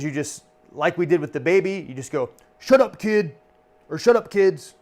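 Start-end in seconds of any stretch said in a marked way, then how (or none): 2.6-3.4 raised, louder mock scolding; tongue-in-cheek rebuke. Shown as a demonstration. Comedian to misbehaving kid in the audience, tongue-in-cheek rebuke. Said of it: "tongue in cheek". 4.0-4.7 higher-pitched mock scolding; tongue-in-cheek rebuke. Shown as a demonstration. Comedian to kids acting up, tongue-in-cheek rebuke. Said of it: "tongue in cheek".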